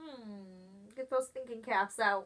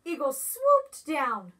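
ordinary delivery

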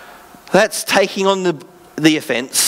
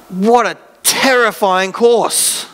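laughing; 2 semitones higher, much slower than usual. Real, not acted. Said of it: "just to put it out there".

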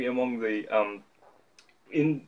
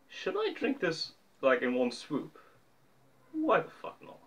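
high playful; 5 semitones higher, 5 dB quieter than usual. Real, not acted. High mock question before chugging.

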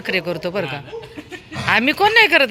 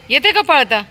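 pet talk; 6 semitones higher, 4 dB louder than usual. Real, not acted. Talking to the dog.

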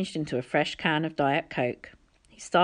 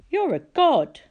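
stunned realisation; 10 semitones higher, 6 dB louder than usual. A narrator's reading. Percy realises.

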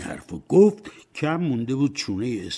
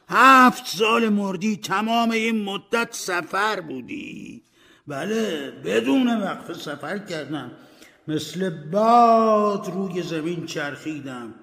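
higher, pained ghost lamenting; suffering ghost; 10 semitones higher, 4 dB louder than usual. Acted. Ghost Marley tells Scrooge of his torment, anguished. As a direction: moan out the torment.

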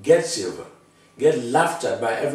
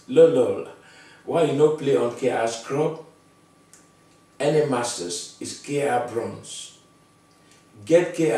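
mocking gamer taunt. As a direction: jeer at him like a smug pro.

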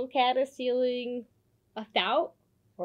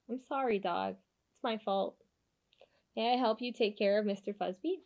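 softer, gentle apology; quiet heartfelt sorry; sincere apology; 4 dB quieter than usual. Acted. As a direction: make it up to him softly. Cat apologizing.

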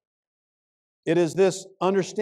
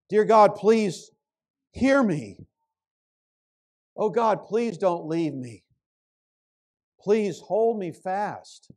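pleading prayer. Acted. Believer alone in the night, crying out to God, pleading. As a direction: beg God for mercy, alone and broken. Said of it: "you cry out for mercy".

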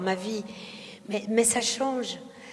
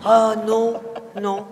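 louder, playful yes yes yes then no no; mock nodding along; 7 dB louder, much slower than usual. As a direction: act out agreeing blindly. Mimics nodding along without understanding.

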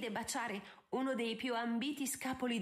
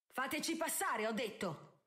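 higher, forceful order; booming command; 5 semitones higher than usual. Acted. Benedict orders the guards aside, a mildly booming command. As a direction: demand they step aside. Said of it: "intimò la voce tonante di Benedict".

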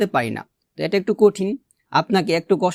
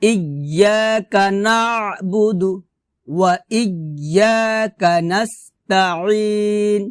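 measured chanting for students to repeat; Quran recitation demo. Shown as a demonstration. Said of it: "আমার সাথে বলেন".

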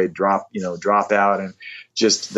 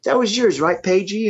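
much higher, different-timbred star voice; imitating a singer; 12 semitones higher than usual. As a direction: put on the rock legend's lilting voice. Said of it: "He goes".

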